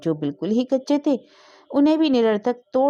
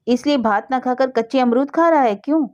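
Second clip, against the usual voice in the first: angry rebuke; 5 semitones higher, 4 dB louder than usual. A narrator's reading. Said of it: "Narayani के आग सी लग गई".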